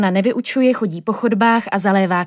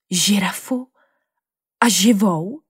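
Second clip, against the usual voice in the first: wondering; slower than usual. Acted. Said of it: "divila se Nina".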